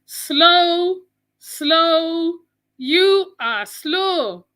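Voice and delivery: drawn-out scornful taunt; slow, scornful taunt; mocking scorn. Real, not acted. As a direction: drag it out, mocking him.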